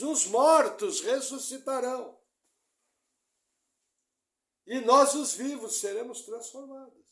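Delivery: loud, slow proclaimed quote; preaching. Acted. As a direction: proclaim it like a sermon. Quotes Paul at preaching force. (citação proclamada com força)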